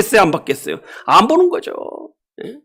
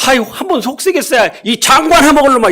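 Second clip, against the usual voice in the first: mock scolding parent; 4 semitones higher than usual. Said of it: "이렇게 한번 했을 건데".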